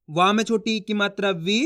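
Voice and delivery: spelling out the vowel sign; measured teacher's spelling chant; syllable-by-syllable reading. Shown as a demonstration. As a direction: recite the letter and its sign as a drill. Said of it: "एक अक्षर का उच्चारण करके".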